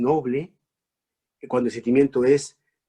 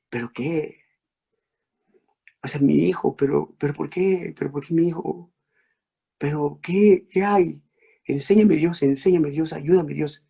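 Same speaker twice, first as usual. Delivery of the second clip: grieving mother pleading; 3 semitones higher than usual. Acted. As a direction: beg God, rising. Madre ante hijo muerto suplica. (madre suplicando a Dios, cada vez más fuerte)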